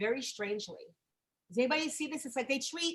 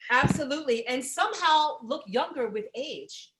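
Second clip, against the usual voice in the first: reading card aloud. Acted. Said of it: "let me read this card".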